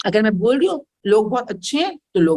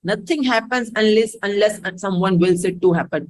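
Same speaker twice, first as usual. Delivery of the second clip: very slow, spelled-out rule; slow mantra; 2 semitones lower, much slower than usual. Shown as a demonstration. Teacher repeats her motto to students, very slow. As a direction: lay out each word slowly like a motto. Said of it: "repeats mantra slowly".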